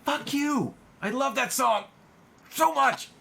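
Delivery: overwhelmed by a favorite song, weepy; high teary whimper. Real, not acted. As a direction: squeak it out while crying.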